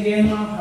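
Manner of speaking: "grandma" with the R dropped; "grandma" loosened into "gamma"; R left out. Shown as a demonstration. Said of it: "I leave the R out".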